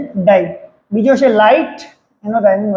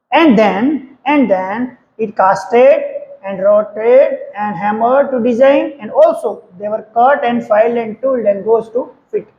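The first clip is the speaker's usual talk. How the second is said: slow dictation; much slower than usual. Shown as a demonstration. Teacher dictates answer slowly.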